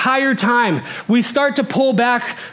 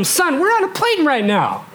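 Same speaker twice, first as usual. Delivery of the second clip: put-on higher-pitched plea to a toddler; retold pleading with son; 6 semitones higher than usual. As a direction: reason urgently with a screaming child, acted. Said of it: "I'm trying to talk to him".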